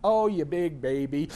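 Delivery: imitating a wife's sweet tease, slow; sweet, innocent teasing. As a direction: tease slowly with mock innocence. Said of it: "very sweetly and innocently".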